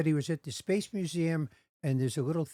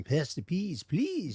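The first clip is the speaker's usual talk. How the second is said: a singer impression; much slower than usual. Retold or imitated. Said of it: "Bob Dylan at Thanksgiving".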